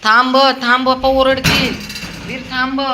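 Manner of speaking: loud, high shout to stop. Real, not acted. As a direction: yell after the running dog to halt. Stopping running dog. (मोठ्याने ओरडून थांबवणे)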